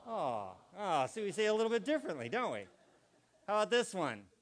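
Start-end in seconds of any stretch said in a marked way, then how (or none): 0.1-1.1 a mild let-down sigh of aw; disappointed aw. Shown as a demonstration. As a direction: sound gently disappointed. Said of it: "then we would say".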